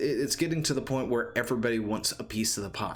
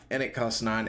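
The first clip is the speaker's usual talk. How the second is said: hiccuping. Real, not acted. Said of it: "and I'm hiccuping again".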